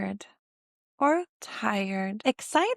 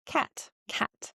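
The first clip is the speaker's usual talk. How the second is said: whisper; 5 semitones higher, 5 dB quieter than usual. Shown as a demonstration. Whispered cat demo.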